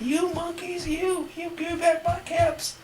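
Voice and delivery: very high, slow mock-angry demand; quite angry. A narrator's reading. Peddler stamps his foot at monkeys, quite angry. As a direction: play a storybook tantrum, drawing the words out. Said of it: "Now he felt quite angry".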